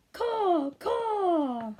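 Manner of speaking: high cawing crow; loud high crow calls. Acted. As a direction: caw like a crow. Crow noise.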